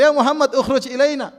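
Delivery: high, loud demanding call; imitating rude Bedouin shout. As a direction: yell it toward the house. Retold rude loud summons.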